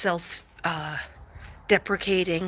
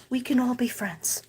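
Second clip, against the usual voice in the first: whispering; 4 semitones higher than usual. Real, not acted. Whispers to viewers that all is well, hushed. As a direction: breathe it out in a whisper.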